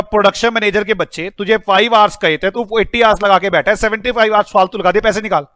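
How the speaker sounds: mildly acted telling-off; mock scolding. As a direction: scold the manager in a rolling, hammed-up rush. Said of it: "मैं पहले डांट रहा हूं".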